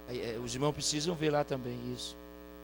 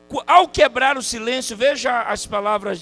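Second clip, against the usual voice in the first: loud, raised preacher's build-up; high start, stepping down as it goes; fervent preaching; 9 semitones higher, 11 dB louder than usual. Acted. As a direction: announce it forcefully to the congregation. Preaching at full force.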